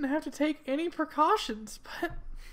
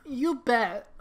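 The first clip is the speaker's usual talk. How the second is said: whisper; 4 semitones lower than usual. Acted. Judy answers Nick's worry.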